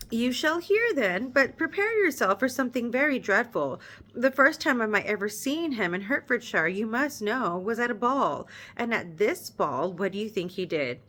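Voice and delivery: measured read-aloud narration; story narration. Acted. Reader narrating the novel to her viewers, measured storytelling.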